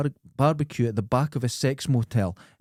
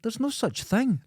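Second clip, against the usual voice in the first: high, disbelieving quote; incredulous retort; 10 semitones higher than usual. Retold or imitated. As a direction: scoff at the idea. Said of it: "And I went".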